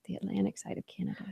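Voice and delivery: quick hushed whisper; fast whisper. Shown as a demonstration. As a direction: rush it out in a whisper. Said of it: "That's what we will say".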